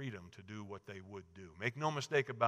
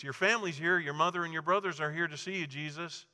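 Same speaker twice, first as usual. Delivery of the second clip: eager announcement; 5 semitones higher, 4 dB louder, faster than usual. Acted. Someone announces family.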